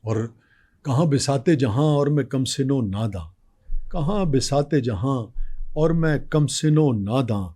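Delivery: slow tender poetic recital; nazm recitation. Acted. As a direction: recite each line slowly, savouring it.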